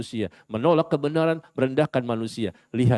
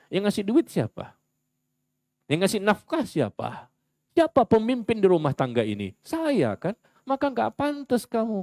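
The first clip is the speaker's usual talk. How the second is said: mock proud husband, higher and smug; lightly played arrogant husband; 5 semitones higher than usual. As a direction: voice the boastful husband lording it over his wife. Husband voiced boasting to wife.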